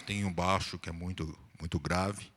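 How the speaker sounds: low bass register sample; bass voice demo. Shown as a demonstration. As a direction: drop down to a deep bass to demonstrate. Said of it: "uma voz um pouco mais grave".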